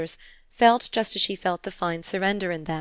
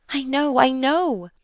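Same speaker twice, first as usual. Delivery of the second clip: higher, louder, drawn-out "know"; eager burst; 7 semitones higher, 5 dB louder, slower than usual. A narrator's reading. Girl breaking in on her stepmother, eager. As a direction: burst out eagerly in a high child's voice. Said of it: "with a burst of eagerness".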